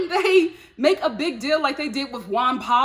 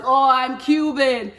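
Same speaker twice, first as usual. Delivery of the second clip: attempted Cuban accent; 5 dB louder, slower than usual. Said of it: "I'm not doing that accent".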